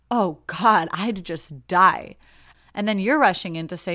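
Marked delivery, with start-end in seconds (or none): 0.1-2.2 louder, slow, dragged-out horror; mock horrified gasp. Coworker gasping at a missing report, louder with slow mock horror. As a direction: play the appalled coworker, hamming up the shock. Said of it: "this person gasps and says".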